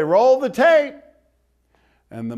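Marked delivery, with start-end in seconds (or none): 0.0-1.0 high, loud mock order to roll the tape; devil's command. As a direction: bark it like the accuser demanding the evidence. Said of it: "And he'll say".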